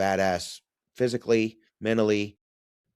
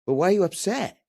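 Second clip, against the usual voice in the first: high, louder incredulous question; retold bewilderment, pitched way up; baffled question; 14 semitones higher, 5 dB louder than usual. Father asking his bawling son why he is upset, baffled.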